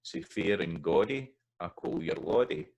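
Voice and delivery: reading the lyric with Scots lordy; lordy said as LOR-dy with a Scots vowel. Shown as a demonstration. Teacher reading a Scots ballad line to students, lordy in Scots. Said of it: "if you realise that it's lordy".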